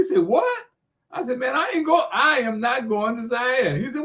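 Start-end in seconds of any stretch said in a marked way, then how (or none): 0.2-0.7 high-pitched, rising disbelief; incredulous. Retold or imitated. Ali hearing the speaker won't fly to Zaire, incredulous. Ali's reaction to the speaker's refusal, retold. 1.4-3.8 retold digging in, "I am not" slowed for emphasis; emphatic refusal. The speaker telling the champ he won't fly, "I am not" high and emphatic.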